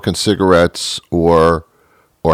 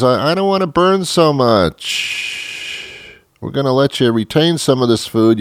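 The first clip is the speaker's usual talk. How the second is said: talking body; 7 semitones higher than usual. Acted. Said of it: "the body says".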